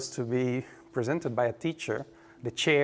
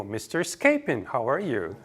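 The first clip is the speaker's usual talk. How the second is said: English speakers' version; 2 semitones lower than usual. Retold or imitated. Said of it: "Anglophone people".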